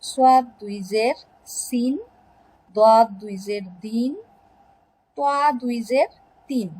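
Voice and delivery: careful letter-by-letter drill ending on সিন, দিন, তিন; pronunciation drill. Shown as a demonstration. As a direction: spell out each letter with দুই জের, then sound সিন, দিন, তিন. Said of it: "কিভাবে উচ্চারণ করতে হয় দুই জের".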